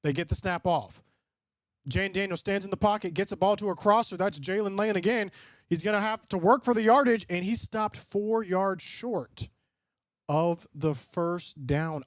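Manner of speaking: lightly voiced game commentary; play-by-play call. Streamer calling the game live for chat, a light play-by-play. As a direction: call the snap like a broadcaster.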